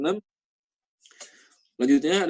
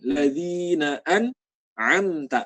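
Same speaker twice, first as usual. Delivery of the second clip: slow ladzina an'amta; recitation; much slower than usual. Shown as a demonstration. Teacher reciting the verse slowly. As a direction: recite it drawn out. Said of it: "recitation demo".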